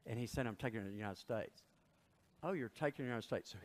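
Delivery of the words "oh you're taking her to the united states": fast, doubting repeat-back; an official's quick incredulous echo; mock sceptical echo. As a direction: toss it back like you don't believe him.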